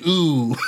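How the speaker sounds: drawn-out "ooh" with a long oo; catchphrase "ooh". Acted. Correcting himself on Gallagher's catchphrase, mimicked "ooh". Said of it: "he has, like, an".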